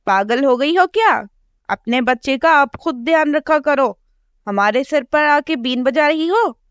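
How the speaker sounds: mild mock anger, crow wife chasing off the sparrow; angry crow wife. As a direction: shoo the sparrow away. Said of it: "बड़े गुस्से में चिड़िया से कहती है".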